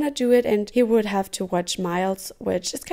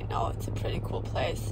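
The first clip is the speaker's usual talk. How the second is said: whispering; 7 dB quieter than usual. Real, not acted. Whispered reply in car.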